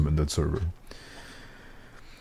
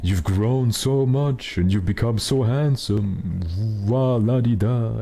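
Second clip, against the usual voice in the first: higher, slow doting grandma voice; imitating grandparents; 5 semitones higher, slower than usual. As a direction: gush like a fond grandparent. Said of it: "they keep telling you".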